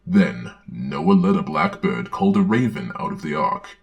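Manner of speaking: put-on earnest children's-book reading voice; storybook narration. Narrator reading a children's Bible story aloud, earnest storybook narration. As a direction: read it like a Sunday school storybook.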